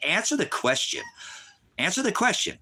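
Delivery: furious teacher shouting at a disruptive student; angry shout. Real, not acted. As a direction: bark the order at the troll. Shouting at a chat user.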